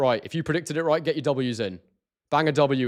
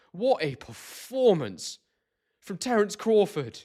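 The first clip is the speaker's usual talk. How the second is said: emotional awe; 8 semitones higher, much slower than usual. Real, not acted. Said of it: "I'm an emotional person".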